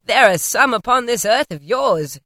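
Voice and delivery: loud hearty spirit, scornful; spirit retorting. Acted. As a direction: scoff and rebuke like a giant ghost. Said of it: "returned the spirit".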